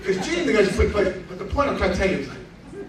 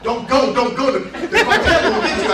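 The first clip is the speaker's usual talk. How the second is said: mock pleading wife, rising higher and louder; imitating worried wife; 4 semitones higher, 4 dB louder than usual. Husband imitates wife begging him not to go, mock pleading.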